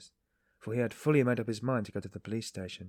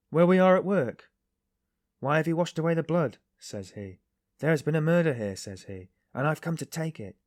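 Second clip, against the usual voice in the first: excited retelling; 7 semitones higher, 7 dB louder than usual. A narrator's reading. Workman retelling the stranger's words.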